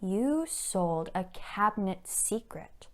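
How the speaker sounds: arch, menacing society blackmailer; Mrs Cheveley. Acted. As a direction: toy with your victim, then threaten scandal. Performs Mrs Cheveley's monologue.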